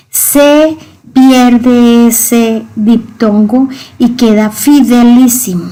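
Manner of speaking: drawn-out, slow teaching line; slow stressed explanation. Shown as a demonstration. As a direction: stretch it out slowly for the class. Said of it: "Miren el diptongo que hay acá".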